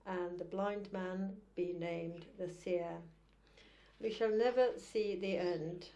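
deliberate, formal verse recital; measured poetry-reading cadence with set pauses; poem reading. Acted. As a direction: recite it as a poem, weighing each phrase. Reads a poem aloud.

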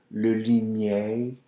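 limier said slowly, vowels kept tight in the back; le limier, tight not relaxed; tight French vowels. Shown as a demonstration. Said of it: "try to keep it tight here".

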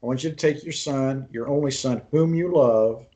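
phrase by phrase, weight growing on "whom you love"; emphatic quote. Retold or imitated. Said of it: "But God is emphasizing".

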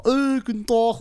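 exaggerated East German accent. Comedian mocking a friend's East German dialect, exaggerated East German accent. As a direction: ham up a Saxon-Thuringian "Ey, guten Tag". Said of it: "er macht mich übertrieben nach".

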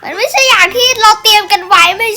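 mock protest. Mock protest about the script.

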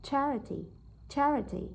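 "charity" stressed on "char"; stress on first syllable. Shown as a demonstration. Teacher models word stress, "charity" with first syllable stressed. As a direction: hit "char" in "charity", let the rest drop. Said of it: "đánh trọng âm vào từ char".

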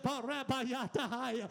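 slow, rhythmic tongues syllables; speaking in tongues. Acted. Preacher recalls praying in tongues, slow and rhythmic. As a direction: let the syllables roll out slowly in tongues.

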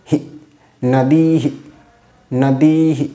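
"নদীহি" with long dii, short echoed hi; visarga as hi. Shown as a demonstration. Sanskrit teacher shows visarga after i, demonstrating pronunciation. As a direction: say "নদীহি" slowly, ending in a brief breath-like hi. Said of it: "উচ্চারণ হবে".

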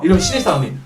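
ordinary talk

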